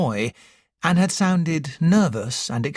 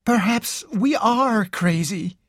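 put-on slow, higher, musing young woman; slowly; 8 semitones higher than usual. A narrator's reading. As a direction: let each word settle, thinking aloud. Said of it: "Carol said slowly".

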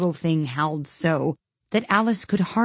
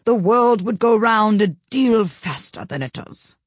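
slow, hoarse duchess growl; 5 semitones higher, 4 dB louder, slower than usual. A narrator's reading. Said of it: "in a hoarse growl".

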